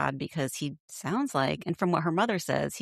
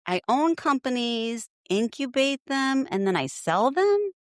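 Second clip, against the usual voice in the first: lightly voiced Lisa; 8 semitones higher than usual. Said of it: "So she kind of said".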